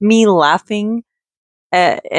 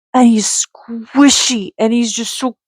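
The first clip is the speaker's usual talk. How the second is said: adoring whisper; 4 semitones higher than usual. Real, not acted. Cooing over ducky.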